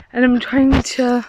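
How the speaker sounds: breathless from the uphill walk; panting slightly while talking; out of breath. Real, not acted. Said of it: "I am out of breath".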